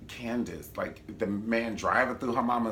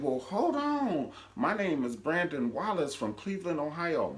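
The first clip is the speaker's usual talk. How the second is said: mock formal introduction; 7 semitones higher than usual. Man stopping the fight, grandly introducing himself. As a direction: announce yourself grandly. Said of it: "he was like".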